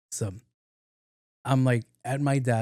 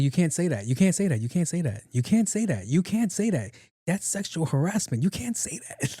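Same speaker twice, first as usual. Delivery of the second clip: rising, more and more worked-up protest; 5 semitones higher than usual. Retold or imitated. To a flirting coworker, escalating mock protest. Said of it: "I was like".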